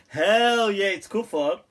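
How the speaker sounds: loud punchy hell yeah; mock-exasperated yes; emphatic answer. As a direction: slam the answer home. Emphatic answer to own question.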